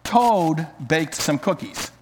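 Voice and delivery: lively read-aloud storytelling voice with character lines; story narration. Acted. Pastor reading a children's story to the congregation, lively read-aloud.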